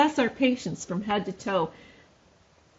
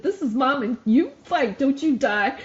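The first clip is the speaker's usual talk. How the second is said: mild mock scream; 4 semitones higher, 5 dB louder than usual. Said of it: "I screamed at the top of my lungs".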